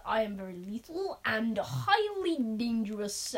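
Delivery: slow, badly done comic accent; hammy attempt at a creature's accent; Mister Gorf. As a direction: draw it out in a silly accent. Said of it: "This is a horrible accent".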